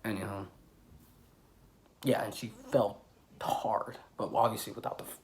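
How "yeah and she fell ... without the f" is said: confiding whisper. Real, not acted. Telling viewers a grim secret, whispered.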